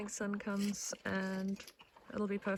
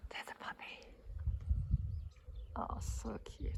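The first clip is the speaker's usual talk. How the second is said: whisper; 7 dB quieter than usual. Real, not acted. Whispering near sleeping puppies.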